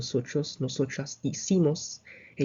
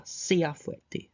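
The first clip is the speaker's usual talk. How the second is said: formal command; 3 semitones higher than usual. Shown as a demonstration. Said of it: "if you're talking to, like, a teacher".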